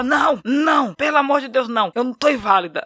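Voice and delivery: mildly indignant mock refusal; annoyed grandma. Grandma refuses help getting up, mildly annoyed. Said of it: "ela ficava puta".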